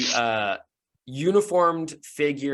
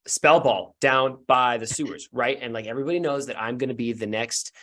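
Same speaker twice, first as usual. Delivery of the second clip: put-on earnest kid; 2 semitones lower than usual. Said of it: "looks at you earnestly and says".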